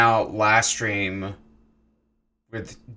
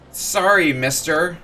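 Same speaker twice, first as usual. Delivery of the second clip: put-on higher, small frightened kid voice; a kid whimpering an apology; scared child; 4 semitones higher than usual. A child apologizing to the angry samurai, scared.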